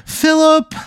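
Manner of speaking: very high wail of a name; distraught mother's cry. Acted. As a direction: cry out for your lost child. Mother cries out for her son.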